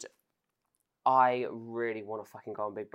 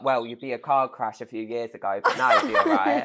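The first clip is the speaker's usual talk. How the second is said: laughing imitation; 4 dB louder than usual. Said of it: "She was like".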